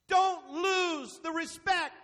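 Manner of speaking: slow, weighty pulpit warning; emphatic, drawn-out preacher's charge; preaching. Real, not acted. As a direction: press each word out slowly and firmly.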